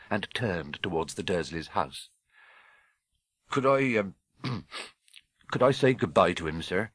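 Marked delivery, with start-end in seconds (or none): 3.5-6.9 hesitant, humble gruff request; gentle giant. Acted. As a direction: ask haltingly with a throat-clear.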